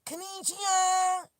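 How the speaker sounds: high mock voice of the headphone lady. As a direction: chirp it like a device announcer. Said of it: "she talking about some".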